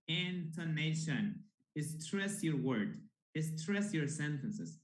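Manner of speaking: slow and deliberate teacher stress; slow, emphatic. Shown as a demonstration. Teacher drilling the class, slow and emphatic. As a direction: lean on each word, slowly. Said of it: "teacher stressing key words".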